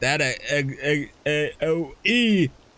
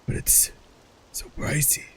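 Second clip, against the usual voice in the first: unvoiced, softer; whispering; 4 dB quieter than usual. Real, not acted. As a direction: whisper it longingly. Whispered longing.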